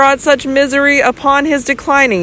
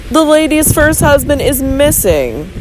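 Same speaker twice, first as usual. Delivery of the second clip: odd weight on "missing", voice a bit higher; strange emphasis; 5 semitones higher than usual. Acted. Physician probing Robert, strange emphasis on "missing". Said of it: "with a strange emphasis on the word".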